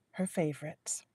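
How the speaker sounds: breathy whispered aside. A narrator's reading. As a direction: breathe the words out softly.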